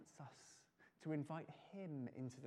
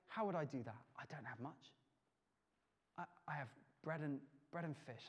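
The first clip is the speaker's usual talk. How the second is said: doubtful whisper; 2 semitones lower than usual. Acted. Whispered doubting response to Jesus.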